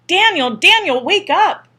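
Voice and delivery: high, loud urgent waking call. A narrator's reading. Mother calling her son out of a nightmare, high and loud. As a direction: shake him awake with the voice.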